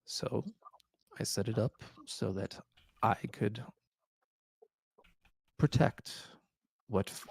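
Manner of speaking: lightly voiced frail old man; weary old king confessing. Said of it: "he goes through his explanation".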